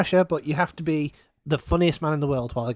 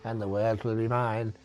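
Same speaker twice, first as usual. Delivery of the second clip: low, quiet evil villain; 7 semitones lower, 6 dB quieter than usual. Retold or imitated. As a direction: murmur it like a Bond villain. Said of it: "just kind of going".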